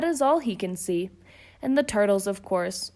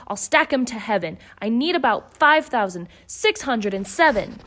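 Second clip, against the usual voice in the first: louder, indignant outburst; furious king; 4 dB louder than usual. Acted. Yertle rages at the moon, louder. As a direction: refuse to be outdone. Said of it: "snorted Yertle".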